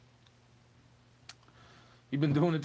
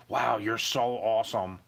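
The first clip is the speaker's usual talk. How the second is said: slow, dripping mock praise; obvious sarcasm; 4 semitones lower, slower than usual. Shown as a demonstration. Ranting at his partner, slow heavy sarcasm. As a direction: lay the sarcasm on thick and slow. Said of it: "You should be able to tell when I'm being sarcastic".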